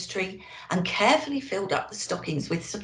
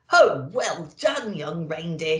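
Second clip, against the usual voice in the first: mild shout. Acted. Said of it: "he shouted".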